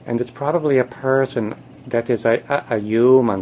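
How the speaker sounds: lightly pleading instructor voice; cat trainer coaching. Acted. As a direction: coach a reluctant pupil, halting and restarting. Cat coaches kitties in training video.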